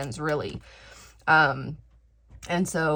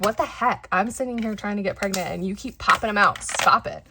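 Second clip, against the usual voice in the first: louder, higher mock exasperation at her sister; exasperated outburst; 5 semitones higher, 6 dB louder than usual. Complaining about her sister's pregnancies, half-joking exasperated outburst. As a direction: throw up your hands in playful disbelief.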